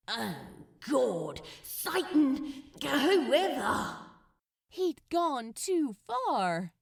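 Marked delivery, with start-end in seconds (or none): 0.1-4.0 loud, scornful shrug-off; exasperated scoff. Acted. Crowley scoffing at the angel, loud and exasperated. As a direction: brush it off with contempt.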